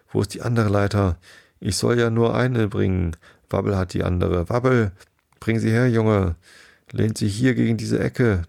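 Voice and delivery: lightly voiced helpers shouting to each other; excited little creatures at work; voices of the crowd. Crowd of animals at the house.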